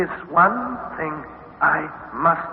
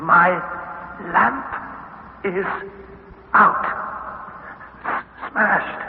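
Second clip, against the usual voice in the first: desperate shout; 3 semitones higher than usual. Acted. Lost boy shouting to distant uncle.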